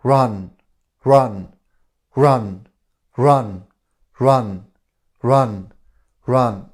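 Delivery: loud repeated command to the inner voice. Shown as a demonstration. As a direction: order the voice to run, over and over. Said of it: "tell the voice, "Run".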